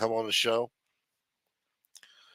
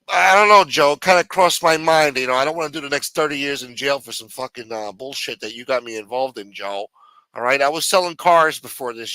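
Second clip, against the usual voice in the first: whiny jailed underling; 5 dB louder than usual. Acted. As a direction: complain like a small-time crook who got pinched. Underling threatens to rat.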